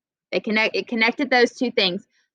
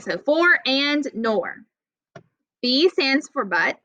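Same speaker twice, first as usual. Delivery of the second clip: slow, teaching pace; slower than usual. Shown as a demonstration. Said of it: "help you remember".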